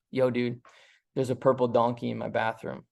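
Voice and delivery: low, flat and offhand, no energy at all; flat, unconvinced. Retold or imitated. Calling best friend about the donkey, flat and unconvinced. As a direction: toss it off like it doesn't matter. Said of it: "It's how you say it".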